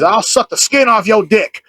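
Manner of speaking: slow, drawn-out mock yell; retold yell. Imitating a lady walking around outside, mock yell. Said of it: "she just yelled that".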